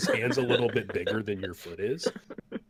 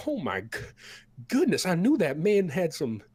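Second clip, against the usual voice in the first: put-on much higher, louder folksy old cook voice; 9 semitones higher, 5 dB louder than usual. The cook hands bowls to the battered party, high and folksy. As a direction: play the big cook fussing over them. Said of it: "he's like".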